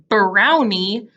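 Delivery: BROWNIE drawn out from a pressed b; long, careful brownie; stretched B. Shown as a demonstration. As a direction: slowly lean on the first sound of brownie. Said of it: "pushed together like that".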